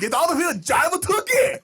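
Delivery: high, loud hammed-up insult; mock retro tough guy; old slang insult. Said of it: "sixties slang".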